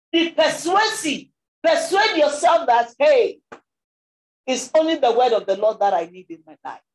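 loud, emphatic sermon exhortation; forceful preaching. Real, not acted. Preacher urging listeners to persuade themselves, loud and emphatic. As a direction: drive it home to the congregation, loudly.

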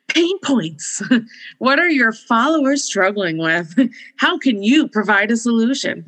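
upbeat pitchman voice; infomercial. Pretend. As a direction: sell it like a TV ad. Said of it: "Do I sound like an infomercial?".

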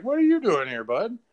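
hammed-up delight, high and loud; mock delighted greeting. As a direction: greet an old friend, thrilled. His own delight seeing Mick Foley.

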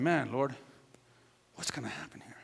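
hushed, anxious prayer under the breath; worried whisper. Retold or imitated. Father praying about the car, anxious whisper. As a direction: whisper it like a desperate plea.

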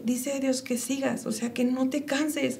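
soft, slow pastoral reassurance; gentle quoted message. Retold or imitated. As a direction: hand her the words quietly and slowly.

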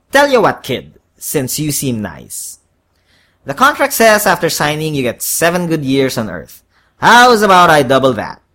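devil salesman, loud at start and finish; wheedling horned devil. A narrator's reading. Devil offers the kid a better contract, wheedling. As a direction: sweeten the deal as a devil.

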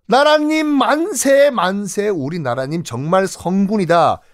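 high, slow cheer fading off; cheering crowd. Acted. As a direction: hail the king like grateful villagers. Grateful people cheering king.

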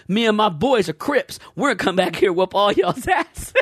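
lightly voiced blustering shoplifter; mock gang threat. Shoplifter threatens store security with his gang, mock tough bluster.

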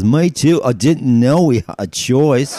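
high, loud and gleeful; a happy Scot grabbing the loophole; eager Scotsman. Acted. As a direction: jump at the chance, then slow down the punchline. Scotsman joins in, delighted.

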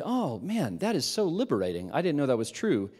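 mock-amazed, talking down; sarcastic fake wonder; condescending tone. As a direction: feign delight to belittle him. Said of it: "in my most condescending tone I could muster".

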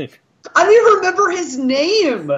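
real amused giggle; laughing. Real, not acted. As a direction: squeeze it out between laughs. Laughing after the bit.

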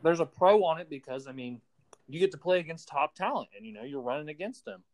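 talking with mouth full; chewing crackers while talking; eating dry crackers. Real, not acted. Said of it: "Bro, are you eating?".

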